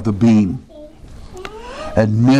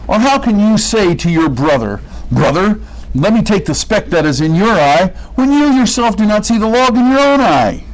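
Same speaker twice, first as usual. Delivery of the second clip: impassioned rebuke; 8 semitones higher than usual. Retold or imitated. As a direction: build the question up until it peaks on "own eye". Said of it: "He says".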